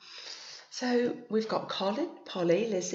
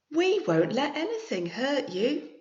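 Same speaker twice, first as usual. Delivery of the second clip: comforting mum; 7 semitones higher, 5 dB louder than usual. Acted.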